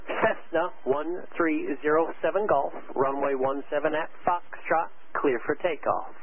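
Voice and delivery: slow, spelled-out, every word separate; slow deliberate clearance. Real, not acted. Controller to confused Cessna pilot, slow deliberate clearance. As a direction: say it slowly so he can't miss it.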